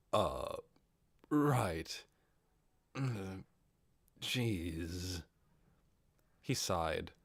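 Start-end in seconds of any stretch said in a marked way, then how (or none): 0.1-5.2 flustered. Acted. Ainz flustered, sighing.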